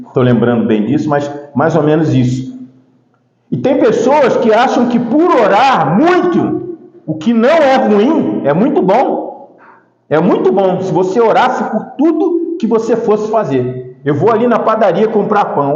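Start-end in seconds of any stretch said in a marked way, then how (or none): 3.5-14.0 emphatic, drawn-out sermon delivery; preaching. Acted. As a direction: press the point on the congregation.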